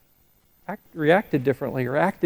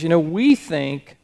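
retold preacher. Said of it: "the way he said this".

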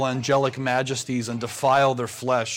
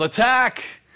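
high yell of attack; sudden high-pitched war cry; yelled battle cry; 9 semitones higher, 4 dB louder than usual. Acted. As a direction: yell the charge like an army of ants. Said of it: "the ants yelled".

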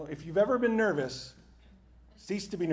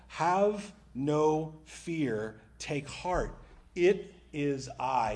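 calm reassurance; much slower than usual. Retold or imitated. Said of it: "And Jesus is like".

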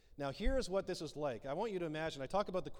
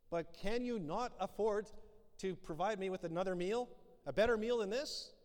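mock indignant Queen; 3 semitones higher than usual. Queen scolding her host over leftovers, mock indignant. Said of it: "She's angry. She's upset".

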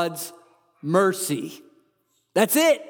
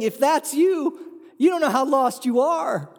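urgent warning; 8 semitones higher than usual. Real, not acted. Preacher warning the self-righteous crowd, near shouting. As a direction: call out the warning with force.

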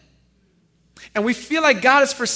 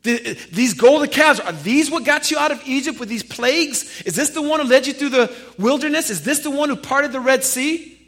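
crying out; 4 semitones higher, 3 dB louder than usual. Acted. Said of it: "he's crying out".

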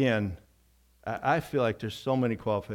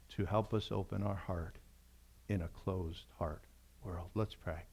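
hushed invitation to pray; 4 dB quieter than usual. Acted. Pastor inviting the congregation to pray, hushed. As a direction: draw the room quietly into prayer. Leads into quiet prayer.

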